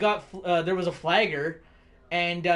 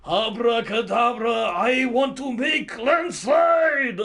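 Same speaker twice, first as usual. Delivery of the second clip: mock magic spell; 6 semitones higher, 6 dB louder, slower than usual. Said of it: "did she just go like".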